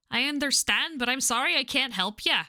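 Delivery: put-on Scottish accent. Game character turning down a request, light Scottish accent. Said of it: "I don't know why I gave her that accent".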